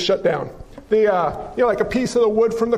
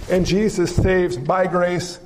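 slow build; 4 semitones lower, slower than usual. Shown as a demonstration. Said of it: "Don't miss the through".

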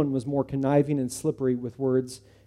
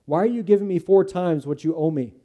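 louder, higher incredulous question; suspicious disbelief; 4 semitones higher, 6 dB louder than usual. Acted. Judah doubting Zacchaeus's fourfold repayment, incredulous.

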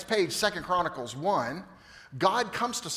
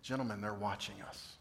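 earnest appeal; 6 semitones lower, 14 dB quieter than usual. Real, not acted. Pastor's earnest appeal to men.

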